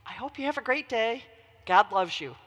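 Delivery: calm, measured retold reply; cool and calm. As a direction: answer an outburst with unruffled composure. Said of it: "he very coolly and calmly said".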